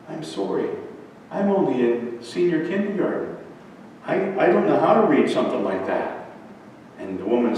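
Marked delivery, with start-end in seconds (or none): 0.1-6.3 put-on softly mournful little-boy apology; understated sadness, halting and soft; sad. Kindergartner admitting to the old woman he can't read, mildly sad. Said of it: "very sadly to the old woman".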